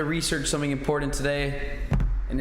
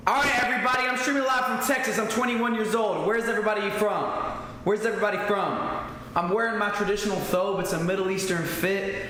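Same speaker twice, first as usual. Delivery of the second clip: hyped stream intro; 6 semitones higher, faster than usual. Real, not acted. Streamer hyping up his chat with an excited greeting. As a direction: pump up the chat like a live host.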